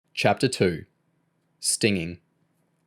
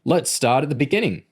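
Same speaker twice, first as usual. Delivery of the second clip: higher-pitched mild bawl; 5 semitones higher than usual. A narrator's reading. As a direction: bawl it like a drill instructor. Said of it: "Mister Large bawled".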